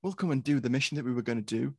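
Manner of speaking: hammed-up excited crew; mock eager agreement. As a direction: play the gullible recruits jumping at the offer. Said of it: "And they were like".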